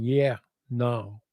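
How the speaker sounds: lightly put-on American accent; a hint of an American accent. Shown as a demonstration. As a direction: pass yourself off as casually American. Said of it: "people would think I was an American".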